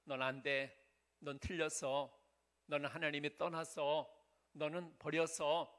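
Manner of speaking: low, measured voice of discouragement; lightly voiced devil. Preacher voicing the devil planting doubts, low and discouraging. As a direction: lightly play an accuser, pitched low and subdued. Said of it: "근데 마귀는".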